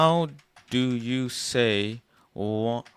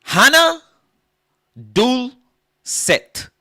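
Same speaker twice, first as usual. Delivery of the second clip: high loud yelped count; mock Korean counting; 14 dB louder, much slower than usual. Comic counting in Korean, high loud yelps. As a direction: yelp the numbers, breathy last.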